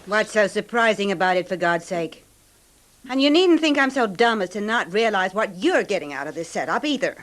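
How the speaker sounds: angry outburst. Acted. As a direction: throw it at him, fed up and bitter. Wife's outburst, quarrel with husband.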